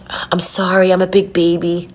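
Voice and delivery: apologizing through real tears; a touch of crying, embarrassed at it; tearful. Real, not acted. Apologizing to viewers for being a big baby, tearful. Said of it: "I'm, like, snot crying".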